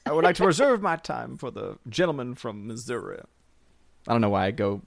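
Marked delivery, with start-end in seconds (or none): 0.0-3.2 lightly put-on Southern accent, like a congressman; mock Southern accent. Host pretends to yield floor time, light Southern accent. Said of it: "The accents that just randomly come out of him".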